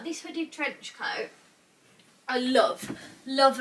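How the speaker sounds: ordinary talk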